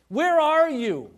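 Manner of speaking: God calling out high and loud, slowly. Acted. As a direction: call across the garden, slow and loud.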